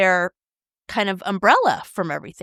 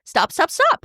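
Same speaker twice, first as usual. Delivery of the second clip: mock annoyed; 5 semitones higher than usual. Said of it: "I get really pissed at you".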